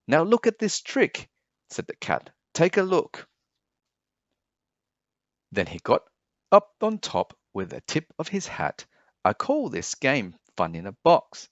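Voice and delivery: high, showy presenting; a magician unveiling a trick; cat in the hat. Acted. Cat showing the children his big red box, high and showy.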